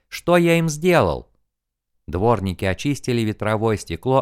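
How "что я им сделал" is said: exclaiming. A narrator's reading. Continues his exclamation.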